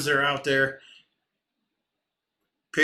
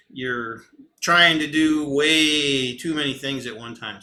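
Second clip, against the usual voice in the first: raised voice, drawn-out emphatic words; yelling; 5 dB louder, slower than usual. Real, not acted. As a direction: get loud as you press the point. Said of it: "Sorry, I'm yelling".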